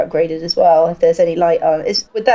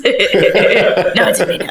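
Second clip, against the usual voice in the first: laughing; 3 dB louder, much slower than usual. Real, not acted. Laughs while retracting joke.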